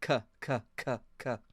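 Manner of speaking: "cuh" pushed from a tightened abdomen; short, separate "cuh" bursts from the gut; gut-driven demo. Shown as a demonstration. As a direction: punch out each "cuh" from the belly. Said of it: "tighten your abdomen when you say".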